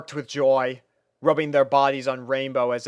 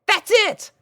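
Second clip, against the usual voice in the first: much higher and louder eureka; light up with the idea; excited pony exclaim; sudden excitement; 7 dB louder than usual. A narrator's reading. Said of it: "she exclaimed".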